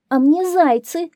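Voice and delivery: high, loud fox voice; fox's answer. A narrator's reading. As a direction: pass the blame on as the fox. (голос лисы, высоко и громко)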